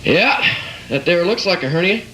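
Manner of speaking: mechanic voice. Retold or imitated. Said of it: "if your doctor talked like your mechanic".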